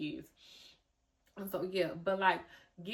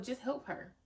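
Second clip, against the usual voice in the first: calming self-talk; 6 semitones higher than usual. Retold or imitated. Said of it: "It helped me calm down to just be like".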